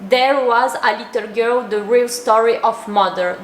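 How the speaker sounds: a French speaker's awkward, slow English; French-accented English, read haltingly; clumsy English accent. Shown as a demonstration. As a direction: read the English title slowly and self-consciously with a French accent. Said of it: "mon accent anglais, il est terrible".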